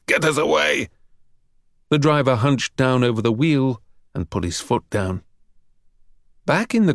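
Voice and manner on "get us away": yelled. A narrator's reading. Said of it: "Ustinov yelled".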